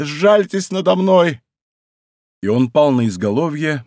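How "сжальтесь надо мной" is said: high, drawn-out plea; мольба. A narrator's reading. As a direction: wail for mercy as a dying man. Dying man begs for mercy. (жалобно умоляя)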